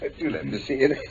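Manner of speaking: laughing as he reaches for it; amused, laughing request; amused chuckle. Acted. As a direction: chuckle through the words. Holmes chuckling over the evidence.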